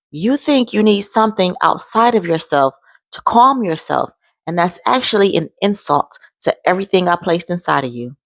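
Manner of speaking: a calm, gentle voice quoted inside the head; calm voice of God. Retold or imitated. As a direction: speak the way a calm inner voice would. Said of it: "just like this, a calm voice".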